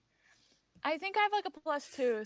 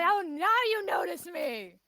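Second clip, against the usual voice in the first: sarcastic jab; 5 semitones higher, 4 dB louder than usual. Acted. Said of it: "And I say".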